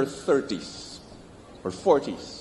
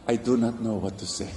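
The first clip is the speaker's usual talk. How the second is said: soft, lower, quick honest admission; gentle admission; 6 semitones lower, 4 dB quieter, faster than usual. Shown as a demonstration. Pastor shows what to say to the grieving, softly. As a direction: say it softly, simply owning it. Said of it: "this is what you say".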